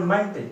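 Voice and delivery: "मंट" with a short schwa, like "munt"; "मंट" as the weak form of the ending "ment"; weak suffix sound. Shown as a demonstration. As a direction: say "मंट" with a reduced "uh" vowel. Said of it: "ये सबसे वीक sound होती है".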